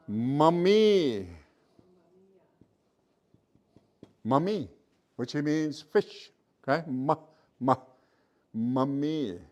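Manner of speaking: "Mummy" said slowly, with a falling tone; Blackfoot word. Shown as a demonstration. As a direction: model "mummy" for the class. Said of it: "it's just like an English M".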